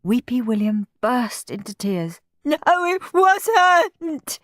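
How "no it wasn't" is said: high, slow tearful protest; sobbing boy. A narrator's reading. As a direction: sob it out. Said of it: "he sobbed".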